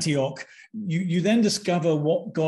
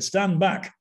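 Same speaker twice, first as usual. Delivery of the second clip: higher, commanding Yorkshire imitation; Yorkshire accent; 5 semitones higher than usual. Exorcist from Leeds ordering his friend back, imitated Yorkshire accent. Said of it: "I'm sorry about my accent".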